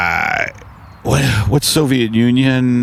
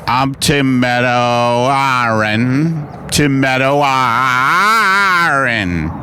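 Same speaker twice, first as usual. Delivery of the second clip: slow announcer voice; slower than usual. Acted. Mock host introduction, slow.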